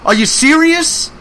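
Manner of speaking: high, slow, mock-disbelieving "Are you serious?"; incredulous. Co-host scolds holdout voters, high slow disbelief. Scolding friends who won't vote.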